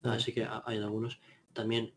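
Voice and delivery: distant, off-mic voice; leaning back away from the mic; far from mic. Real, not acted. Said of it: "es que estaba lejos del micro".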